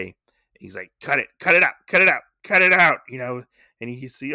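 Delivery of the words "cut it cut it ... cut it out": imitated frantic shouting, higher and louder; mad villain. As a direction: shout the order over and over, losing patience. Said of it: "getting more and more mad".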